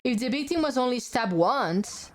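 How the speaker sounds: animated, theatrical deduction; courtroom detective figure. Acted. Explaining the stab wound evidence, lightly theatrical. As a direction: lay out the case like a game detective.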